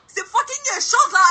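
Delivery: high, gushing disbelief; excited freak-out. Real, not acted. Girl asking friend to guess who it is, thrilled. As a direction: bubble over with the big news.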